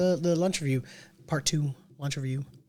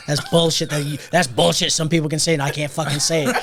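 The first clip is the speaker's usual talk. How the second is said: imitated Boston man, loud griping; Boston accent; 5 dB louder than usual. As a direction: complain loudly in a rough Boston accent. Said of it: "something about his accent".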